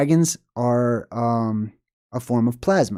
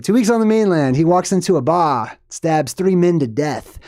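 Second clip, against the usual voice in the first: put-on Australian accent; 3 semitones higher than usual. Retelling the bar stabbing, rough Australian accent. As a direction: have a rough go at sounding Australian. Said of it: "about to do an Australian accent".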